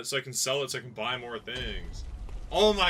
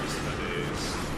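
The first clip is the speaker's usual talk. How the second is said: whispered mock lament.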